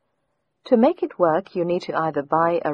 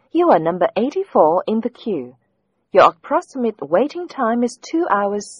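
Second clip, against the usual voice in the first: phone menu voice; 3 semitones higher, 3 dB louder than usual. Acted. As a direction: read it like an automated phone line. Caller put on hold, recorded message.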